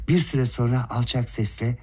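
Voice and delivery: ordinary delivery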